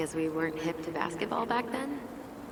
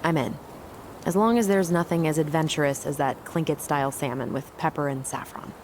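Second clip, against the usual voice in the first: loud; 7 dB louder than usual. Acted.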